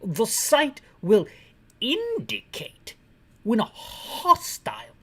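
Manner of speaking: slow mock British voice with rolled r's in "range"; rolled r accent. HQ officer giving instructions, in a mock accent with rolled r's. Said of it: "I rolled my R's".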